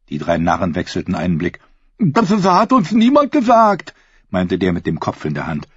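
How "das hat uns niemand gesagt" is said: very high, slow dim-witted voice; simple fool voice. A narrator's reading. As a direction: play a slow-witted ragged peasant.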